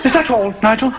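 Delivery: lightly voiced affected English dad; preacher father. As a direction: probe gently as the parodied preacher father. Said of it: "I said to my son".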